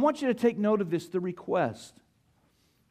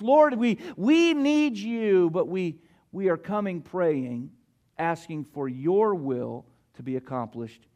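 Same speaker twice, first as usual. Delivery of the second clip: earnest prayer. Acted. Preacher modelling a prayer for the congregation, earnest then settling. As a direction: pray it out, leaning on each need.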